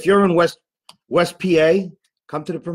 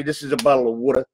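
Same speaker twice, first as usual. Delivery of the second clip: quick South Philly line, water as wooter; South Philly accent; faster than usual. Shown as a demonstration. Actor quotes South Philly locals, in the South Philly accent. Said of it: "They say".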